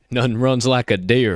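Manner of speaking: put-on country accent, slow slogan delivery; southern drawl. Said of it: "country accent, my southern drawl".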